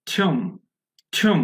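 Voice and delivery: "থুম" as "thyoom" with a glide and pressed M; correct model. Shown as a demonstration. Teacher modelling the right way, "থুম" as "thyoom". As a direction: draw "ew" into a firm M in "থুম". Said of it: "এরকম".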